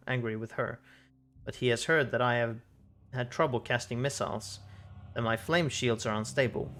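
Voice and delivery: measured, even storytelling with pauses; story narration. Acted. Reading a boy's painful memory aloud, story narration.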